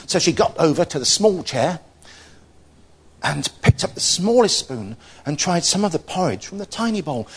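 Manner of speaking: expressive storytelling with lifted phrases; story narration. A narrator's reading. Telling Goldilocks to children, expressive story narration. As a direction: read it out as a children's tale.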